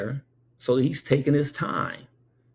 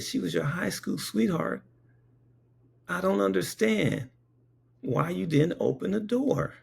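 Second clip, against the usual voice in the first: high-pitched retold bafflement; acted-out incredulous reply; baffled questioning; 9 semitones higher than usual. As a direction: question him in a raised, puzzled pitch. Acting own baffled reply to husband.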